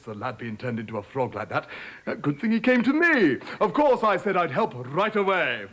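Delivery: put-on hearty, pompous old king. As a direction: boom it out like a self-important king.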